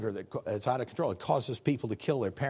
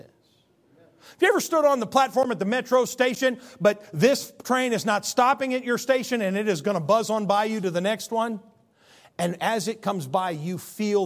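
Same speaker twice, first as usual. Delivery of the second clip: higher, louder storytelling energy; excited preacher's picture; animated; 6 semitones higher, 4 dB louder than usual. Acted. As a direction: paint the train rushing past. Vivid preaching image.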